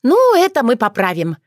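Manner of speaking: businesslike. A narrator's reading. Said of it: "по-деловому заявила".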